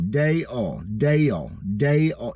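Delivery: Dale drawn out into two beats, like day-all; Dale in two syllables. Shown as a demonstration. Teaching the crowd his name has two syllables, Dale as day-all. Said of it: "Is not one syllable, it's two".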